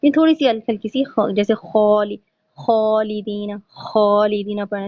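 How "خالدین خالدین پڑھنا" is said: خالدین with a light rasp on the خ; slow demo of خالدین, slight snoring خ; light snore in kha. Shown as a demonstration. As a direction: say خالدین slowly, a gentle rasp on خ. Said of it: "ہلکی سی ہم نے خراٹے کی آواز نکالی".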